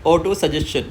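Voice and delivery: ऑटो सजेशन with the ending said as chun; slow careful teacher model of ऑटो सजेशन; model pronunciation. Shown as a demonstration. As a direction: say सजेशन ending in a clear ch sound, chun not shun. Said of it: "first word है".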